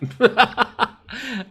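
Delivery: high-pitched burst of laughter. Real, not acted. Laughs after giving up.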